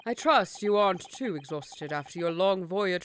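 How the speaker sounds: put-on posh British RP accent; Received Pronunciation, crisp and formal. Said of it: "the R P in my mouth".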